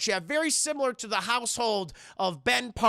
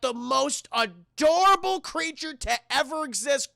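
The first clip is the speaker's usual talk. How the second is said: slow, higher, drawn-out gushing; gushing reveal; 4 semitones higher, slower than usual. Real, not acted. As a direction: build up the adorable reveal. Gushes over adorable creature reveal.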